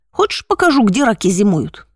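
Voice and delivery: слегка озвученный наглый хулиган, с издёвкой; поддень его лениво, как уличный громила; задира. Acted. (лёгкая издёвка задиры)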